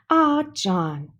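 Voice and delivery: exclaimed. A narrator's reading. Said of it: "Missus Quaver exclaimed".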